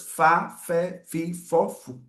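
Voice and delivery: "Fá, Fé, Fi, Fó, Fu" spelled out slowly one by one; sounding out syllables. Shown as a demonstration. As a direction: chant the F syllables for the class. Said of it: "vai formar as sílabas".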